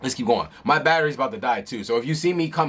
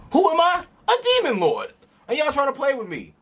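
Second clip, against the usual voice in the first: hammed-up demon lord boast; 10 semitones higher than usual. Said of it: "he's like".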